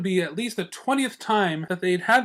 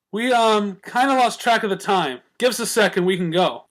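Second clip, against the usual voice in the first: a touch higher, brisk tomboy pony; lightly voiced sporty mare, offhand; Rainbow's voice; 6 semitones higher, 4 dB louder than usual. A narrator's reading. Rainbow apologizing to friends for lost time, brisk.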